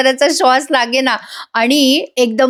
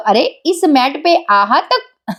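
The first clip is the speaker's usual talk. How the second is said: laughing mockery; 5 semitones higher, much slower than usual. Guddu laughs at tiny mat.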